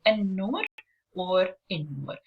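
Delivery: "an-nur or in-nur" with a held, doubled N; no L in "an-nur or in-nur", just a long N; stressed first letter. Shown as a demonstration. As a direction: linger on the N in "an-nur or in-nur". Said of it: "we stress on the first letter".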